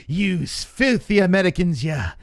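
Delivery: mock-scold the Americans in a shrill put-on voice; angry troll voice. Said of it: "People like".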